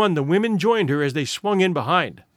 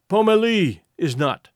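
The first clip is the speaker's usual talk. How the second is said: monotonous voice. Acted. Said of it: "in a monotonous voice".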